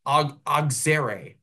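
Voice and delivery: Auxerre said the American way, stumbling on its start; American pronunciation. Shown as a demonstration. Commentator mocking French names, Auxerre said the American way. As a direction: Auxerre said slowly and anglicised. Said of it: "this is the American way to say these names".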